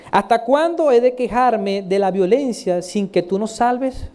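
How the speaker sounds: slow, read-out lament; complaint. Acted. Prophet complains of violence, slow lament. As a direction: read it slowly as a complaint to God. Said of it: "Aquí están sus quejas".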